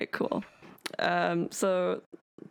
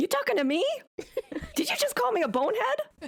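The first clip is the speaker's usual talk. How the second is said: very high, swooping, squabbling shout. Voicing a hidden voice in a shouting match: shouting in a quarrel. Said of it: "Just get into a shouting match".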